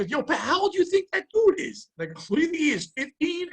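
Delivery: put-on a light send-up of the kid asking; imitating young coworker. Young coworker asks Pat's age, lightly mimicked.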